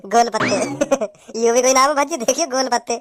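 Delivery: low, chuckling ridicule; laughing mockery. Man ridicules a stranger's odd name, laughing. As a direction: crack up over the silly name. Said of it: "हंसियो, हंसियो".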